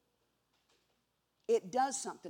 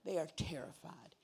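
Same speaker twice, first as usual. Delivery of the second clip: hushed whisper; 3 semitones lower, 6 dB quieter than usual. Acted. Hushed telling of disciples' fear.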